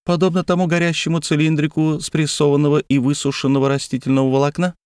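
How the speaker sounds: sneering alien voice, fast ending; scornful high question; open contempt. A narrator's reading. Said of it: "С откровенным презрением осведомился Фнул".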